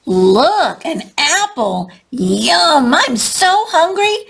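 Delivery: hungry bully spotting a treat; delighted Benny. A narrator's reading. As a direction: relish every word like a hungry bully. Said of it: "Benny says with delight".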